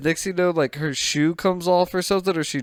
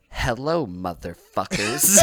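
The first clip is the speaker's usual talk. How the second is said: mock villain greeting; 4 semitones lower than usual. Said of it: "he goes".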